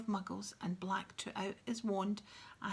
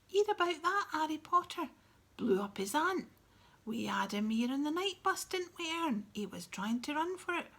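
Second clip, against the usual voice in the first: loud, higher excited bus conductor bragging; Stan boasting; 7 semitones higher, 6 dB louder than usual. Acted. Stan bragging to passengers about Harry, loud and excited. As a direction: shout the gossip out to the whole bus, thrilled.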